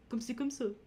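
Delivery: imitating a podcaster's silly French accent; Curtis voice. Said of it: "like, Curtis voice he does on his podcast".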